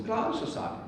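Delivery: put-on a touch of a tired, eager boy. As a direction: sound like an impatient kid. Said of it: "o menino olhou pra ele e falou assim".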